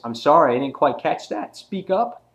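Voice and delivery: loud mock-polite challenge, rising high at the end; Negan. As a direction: act a villain pretending not to hear. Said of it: "and then Negan goes".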